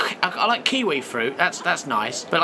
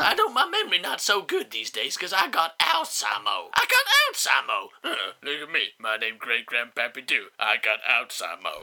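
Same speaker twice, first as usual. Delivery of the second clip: rambling ancient man; 5 semitones lower than usual. Acted. Great Grandpappy Doo explaining to Howard, confused. Ancestor voice, broken English.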